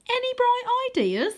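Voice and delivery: high, urgent plea for ideas; urgent ask. A narrator's reading. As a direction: squeak it out in a panic. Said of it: "Wyn shoves me".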